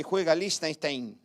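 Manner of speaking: LIECHTENSTEIN run together slowly as "listain-stain"; commentator's mispronunciation. Retold or imitated. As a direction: stretch out a garbled Liechtenstein like a match commentator. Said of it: "el que transmitía el partido decía". (Liechtenstein mal pronunciado por el locutor, alargado)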